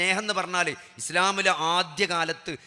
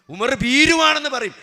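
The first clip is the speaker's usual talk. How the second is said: ഭീരുവാണെന്ന് hit higher and louder, falling at the end; preacher thunders that people would call him a coward; emphatic repeat; 7 semitones higher, 8 dB louder than usual. Acted. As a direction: hammer the repeat home to the crowd.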